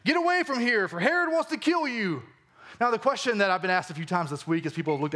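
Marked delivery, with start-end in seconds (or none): 0.0-2.2 mildly raised, urgent warning; lightly voiced Pharisee warning. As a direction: hurry him away, a touch alarmed. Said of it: "some Pharisees came and said to him".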